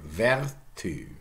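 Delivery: "vertu" slowly, ver-TÜ, French u; French "vertu" in two drawn-out syllables; French pronunciation. Shown as a demonstration. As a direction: say "vertu" as a slow French word. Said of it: "Take a French word".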